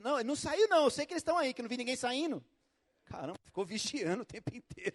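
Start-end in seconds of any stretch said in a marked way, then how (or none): 0.0-2.4 louder, insistent busybody; nosy neighbour. Retold or imitated. Neighbour who watched all day insists, mildly insistent. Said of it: "ela cuida bem da vida".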